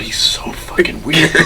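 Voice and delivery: slow, drawn-out verdict; retold disbelief. Recalling watching that episode, slow disbelief. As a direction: stretch it out in mild amazement. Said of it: "literally saying out loud".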